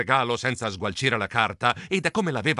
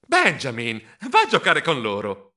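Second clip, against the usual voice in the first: encouraging; 3 dB louder than usual. Acted. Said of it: "lo incoraggiai".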